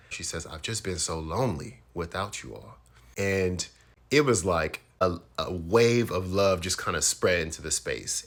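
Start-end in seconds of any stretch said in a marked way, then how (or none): 0.5-2.8 softer, subdued imitation of sorrow; retold tearful confession. Aunt confesses loneliness to family, mildly imitated tearfulness. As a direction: confess quietly, with a touch of sadness. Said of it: "my aunt starts crying".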